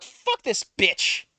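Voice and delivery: slow, drawn-out contempt; slowed-down disgusted mutter; mock disgust. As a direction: drag it out with contempt. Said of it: "And now I'm like".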